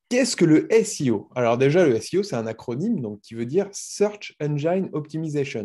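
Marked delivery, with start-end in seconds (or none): 3.7-5.6 English words with a French accent; French speaker's go at English; accent anglais approximatif. Real, not acted. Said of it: "Désolé pour mon accent anglais". (anglais prononcé avec un accent français)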